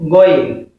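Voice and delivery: "Going" as Arabic Ghayn, said ghoyn; model for repetition. Shown as a demonstration. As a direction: let learners echo "Going". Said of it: "You can say it after me".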